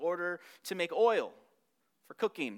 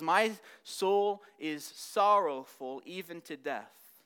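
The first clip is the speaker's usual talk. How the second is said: slow, heavy lament, drawn out; a touch of grief in slow words; sorrowful Jesus; much slower than usual. Acted. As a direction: let each word sink with grief. Preacher voices Jesus' lament.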